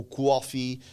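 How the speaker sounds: New York accent on "coffee"; sotaque de Nova Iorque. Shown as a demonstration. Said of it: "os O's parecem assim". (sotaque nova-iorquino, com o O de "coffee" bem marcado)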